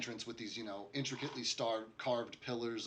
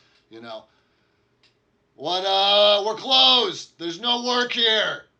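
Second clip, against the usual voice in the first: rough, gruff dwarf voice, very high and loud; 10 semitones higher, 19 dB louder than usual. Game master voicing someone inside the office answering noisy visitors, gruff voice. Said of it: "you hear a, a gruff voice from inside the office".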